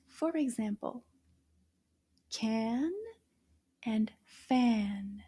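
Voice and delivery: can and fan said slowly; slow demo. Shown as a demonstration. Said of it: "end in the same sound".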